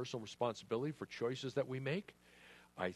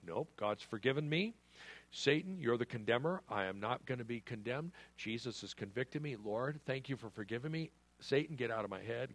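firm rebuke. Acted. Rebuking Satan in a quoted prayer.

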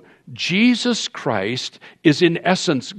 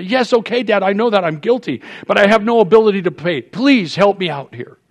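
mild begging; 7 semitones higher, 6 dB louder than usual. Retold or imitated. Son begging father for help.

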